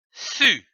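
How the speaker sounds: "Su" said slowly and distinctly as a model; clear syllable demo. Shown as a demonstration. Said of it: "C, c'est dit U".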